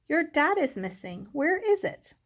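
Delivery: high, loud storybook alarm; alarmed questioning. Acted. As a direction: ask in acted dismay, pitch climbing on the question. Teacher alarmed at missing dot.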